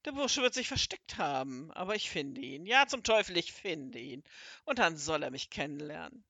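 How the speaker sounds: low menacing growl that flares up loud; a hint of a snarling wizard. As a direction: threaten under your breath, then burst out. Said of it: "Da knurrte der große Zauberer".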